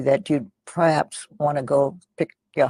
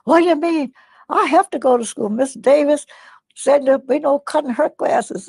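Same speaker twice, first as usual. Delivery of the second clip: put-on much higher, louder alarmed child's voice; upset protest; 12 semitones higher, 6 dB louder than usual. Young son protests to mother about missing school, high alarmed voice. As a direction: play a startled boy insisting he must go.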